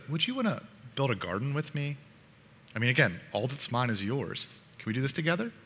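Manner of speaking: soft, mildly coaxing invitation; gentle. Acted. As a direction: ask softly, as a kind father would. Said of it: "his voice is really gentle".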